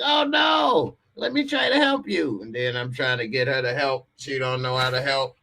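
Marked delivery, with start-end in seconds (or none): 0.0-2.4 mimicking flustered lady. Imitating the lady when the motor falls, high and alarmed. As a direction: cry it out like a panicked helper. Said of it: "She like".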